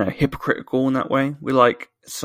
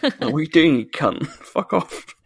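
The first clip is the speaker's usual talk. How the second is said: mock angry local; 4 semitones higher than usual. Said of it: "they'd tell him to fuck off".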